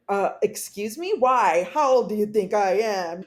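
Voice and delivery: indignant mock offense; offended. Nurse offended at the question. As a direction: act insulted at the question. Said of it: "she was offended".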